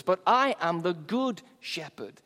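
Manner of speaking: "good" stressed and held against the rest; weight "good" as a contrast. Shown as a demonstration. Jesus set against other so-called shepherds, stress on "good". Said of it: "the emphasis is on good".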